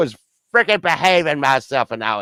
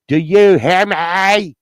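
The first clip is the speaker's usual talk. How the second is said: loud, slow, higher-pitched demand; stern demand; 4 semitones higher, 4 dB louder, much slower than usual. Pretend. Man demanding to be obeyed, stern and loud. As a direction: drag it out like a scolding. Mock tirade laying down the law.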